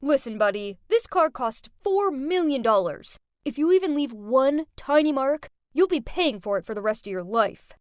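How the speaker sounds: loud, bossy threat; rude shout. Acted. Rich kid Brent threatening the valet, loud and rude. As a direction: bark it down at the valet. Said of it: "he shouted at him and said".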